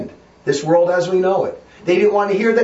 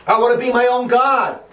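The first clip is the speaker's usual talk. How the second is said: mocking the worldly Catholics; 2 semitones higher than usual. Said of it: "what do they say?".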